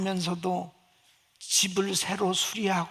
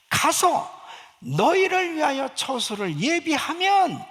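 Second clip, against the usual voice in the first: loud, high, slow declamation; raised, drawn-out preaching voice; emphatic scripture recitation; 6 semitones higher, 6 dB louder, slower than usual. Real, not acted. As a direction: proclaim the verse, stretching it out with force. Emphatic climax of quoted scripture.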